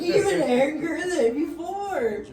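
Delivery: loud, high retold outburst; angry yelling. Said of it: "me yelling at her".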